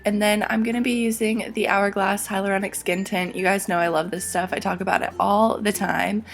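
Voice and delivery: hoarse from being sick; losing voice, a bit rough. Real, not acted. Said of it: "I apologize for my voice because I'm a little bit sick".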